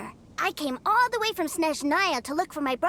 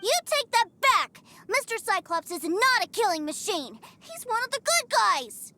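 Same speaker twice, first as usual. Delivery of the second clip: put-on indignant child; 4 semitones higher than usual. Boy scolding a guard who insulted his toy, indignant shout. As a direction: stand up for your toy.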